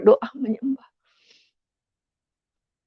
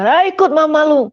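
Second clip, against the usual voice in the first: loud, higher dismissive snap; imitating angry father; 5 semitones higher, 5 dB louder than usual. Father telling son to go follow Mama, loud angry snap. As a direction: wave him off in anger.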